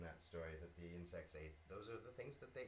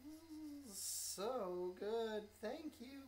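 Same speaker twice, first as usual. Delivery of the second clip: higher, happy little bee; delighted bee; 14 semitones higher, 3 dB louder, much slower than usual. Acted. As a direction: savour it with delight.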